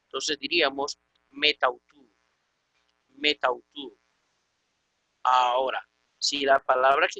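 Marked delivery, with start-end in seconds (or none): 1.3-2.1 "metautu" run together as one word; pronounced joined together. Shown as a demonstration. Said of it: "se va a pronunciar junto con esta". 3.2-4.0 "metautu" as one word with the vowel elided; no break between "met" and "autu"; pronounced joined together. Shown as a demonstration. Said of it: "se va a pronunciar junto con esta".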